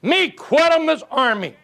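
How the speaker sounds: high, slow broken English; hammed-up chief, high and slow; Indian chief. Preacher voicing the drafted chief, high and slow. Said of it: "he went and he says".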